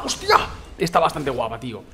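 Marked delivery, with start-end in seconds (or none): 0.0-0.4 shocked exclamation. Real, not acted. Gun fires unexpectedly.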